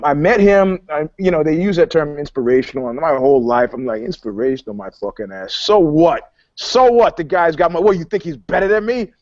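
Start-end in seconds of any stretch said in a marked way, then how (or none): 4.0-6.3 scoffing New York attitude. Retold or imitated. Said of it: "very New York attitude about it". 6.5-7.2 So what? punched up high; louder, higher so what. Retold or imitated. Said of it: "repeated, second louder". 7.2-9.1 scoffing New York attitude. Retold or imitated. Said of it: "very New York attitude about it".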